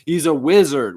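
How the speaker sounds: laughing delight. Real, not acted. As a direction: chuckle it out, amused. Repeats wizard line laughing.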